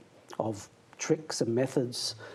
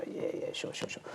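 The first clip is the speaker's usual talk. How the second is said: whisper; 10 dB quieter than usual. Retold or imitated. Kids answering eagerly, retold.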